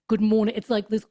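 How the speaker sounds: ordinary talk, nothing marked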